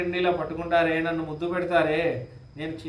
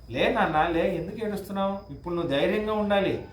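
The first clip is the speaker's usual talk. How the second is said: coaxing Kaikeyi; 2 semitones higher than usual. Retold or imitated. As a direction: lift the pitch and urge him to rise. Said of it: "అని అంటుంది".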